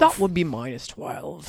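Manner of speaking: lightly put-on Australian assistant voice, drawn out; Australian Siri impression. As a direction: mimic Australian Siri, slowly. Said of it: "Why is he British? He's Australian".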